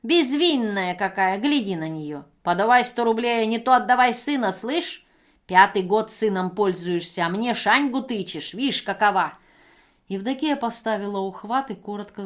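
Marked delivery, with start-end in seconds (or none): 0.0-9.4 put-on much louder, brazen drunken shouting; drunken yelling. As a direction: hurl it at her. Пьяная женщина кричит. (пьяная брань, громко)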